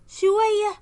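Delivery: mock outrage at a ridiculous understatement; indignant surprise. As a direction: scoff at the word like it's an insult. Scheming secretary scoffs at excuse.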